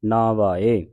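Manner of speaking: ਨਾ ਵਾਏ with a weighted na; ਨਾ ਵਾਏ said weightily as taught; heavy halant sound. Shown as a demonstration. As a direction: lean on ਨਾ, then give ਵਾਏ. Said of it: "ਹਲੰਤ ਲਾ ਕੇ ਉਚਾਰਨ".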